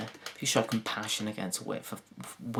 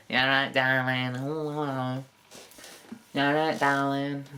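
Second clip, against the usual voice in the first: a light Yorkshire lilt, darling as dalin; friendly Yorkshire theatre greeting. Retold or imitated. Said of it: "I'm a gay guy from Yorkshire".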